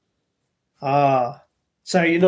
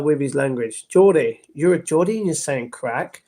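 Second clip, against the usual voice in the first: ordinary delivery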